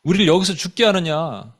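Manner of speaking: mildly aggrieved protest; acted complaint. Israelites complaining to Moses in the wilderness, mild indignant complaint. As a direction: complain on behalf of a frustrated crowd. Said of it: "막 그냥 컴플레인 하는 거예요".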